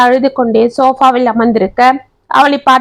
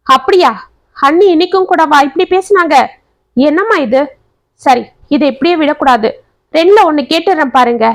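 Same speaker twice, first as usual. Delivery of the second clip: worked-up, higher and quick toward the end; indignant; 4 semitones higher than usual. Acted. Daughter hearing her sister-in-law insulted mother, indignant. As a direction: rise up in outrage. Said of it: "ஆவேசமாக எழுந்தாள்".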